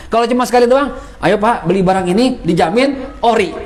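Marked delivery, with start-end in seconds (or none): 1.2-3.5 hawker pitch that breaks into a laughing shout; teacher mocking a one-line seller's pitch with a laugh. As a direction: sell it cheekily, laughing at the end. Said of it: "Gitu doang".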